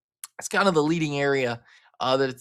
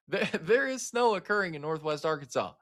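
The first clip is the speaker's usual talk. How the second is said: laughing; 3 semitones higher, 3 dB quieter than usual. Real, not acted. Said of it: "I'm laughing at the fact that we've got snow".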